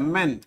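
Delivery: मैन said as "men", a short e and then n; the word मैन spoken as a clean model for students; pronunciation demo. Shown as a demonstration. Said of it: "अब मैन का pronunciation ऐसे होता है".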